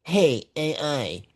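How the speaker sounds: slow, put-on summoning call. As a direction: address the machine grandly. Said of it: "I could say".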